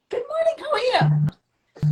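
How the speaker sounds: whispering. Real, not acted. Whispered greeting while joining.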